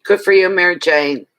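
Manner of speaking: cheering. Real, not acted. Cheering a friend on.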